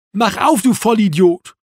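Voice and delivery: loud, high demand; angry shout. A narrator's reading. Erwin losing patience with Marco outside, angry shout. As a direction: shout the insult through the door. Insult shouted through locked door.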